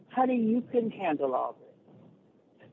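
sassy put-down. Retold or imitated.

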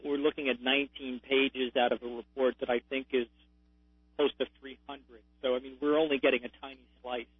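fading, distant phone voice; phone held away. Real, not acted. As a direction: mouth drifting off the phone. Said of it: "It's fading a little bit".

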